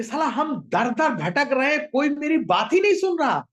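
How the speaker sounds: high, exasperated grumble; fed-up, angry bird. Acted. Bird nobody will listen to, fed up and angry. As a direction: complain in rising, mildly angry frustration. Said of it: "अब चिड़िया का पारा एकदम high".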